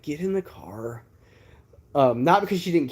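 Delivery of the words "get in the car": curt command. Retold or imitated.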